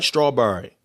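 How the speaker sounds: STRAWBERRY as "straw-burry", falling; Baltimore pronunciation. Shown as a demonstration. Confirming with viewers, Baltimore STRAWBERRY as "straw-burry". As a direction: end STRAWBERRY on a squashed "burry". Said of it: "They would say strawberry".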